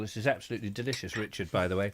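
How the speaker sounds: fast, through a mouthful of food; chewing while talking. Real, not acted. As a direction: talk while still chewing. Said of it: "Sorry, I've got my mouth full".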